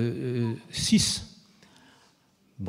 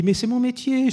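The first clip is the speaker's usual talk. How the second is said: higher, cheeky comeback; self-assured retort; 11 semitones higher than usual. Retold or imitated. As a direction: brush off the worry with confidence. Réplique assurée à Umberto Eco. (réplique assurée et malicieuse, plus aiguë)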